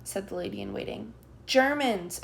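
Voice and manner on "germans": higher, louder alarmed cry; child shouting. A narrator's reading. Child warning the room that soldiers came, shouting. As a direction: blurt it out in alarm. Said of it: "a child shouts".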